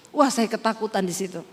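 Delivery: ordinary talk, nothing marked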